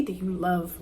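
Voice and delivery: breathy whisper, voice dropping away. Real, not acted. Telling how she listed her flaws to God, in a whisper. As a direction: whisper the list as if to yourself.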